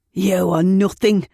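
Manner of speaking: loud contemptuous scream. Acted. Ed screaming at his partner on the floor, loud contempt. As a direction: spit it at her full of scorn. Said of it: "Ed screamed at me".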